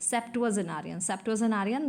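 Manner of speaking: septuagenarian said as "sep-tu-a-ze-narian"; spelling pronunciation. Shown as a demonstration. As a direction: sound out septuagenarian part by part as it is spelt. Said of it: "spelling को ऐसे बोलिए".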